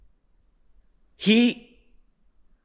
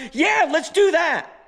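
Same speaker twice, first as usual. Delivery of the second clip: higher, slow sarcastic agreement; 10 semitones higher, slower than usual. Retold or imitated. Me answering my buddy's late winch idea, slow and sarcastic. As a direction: drip with sarcasm, drawn out. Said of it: "And I'm like".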